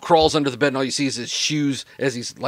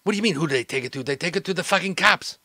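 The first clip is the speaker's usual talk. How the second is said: exasperated retort; 5 semitones higher, faster than usual. Acted. Snaps back at clueless boss.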